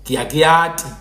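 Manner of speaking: Baphuti-style sample phrase; Baphuti pronunciation. Shown as a demonstration. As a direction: demonstrate Baphuti speech. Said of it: "the Baphuti will say".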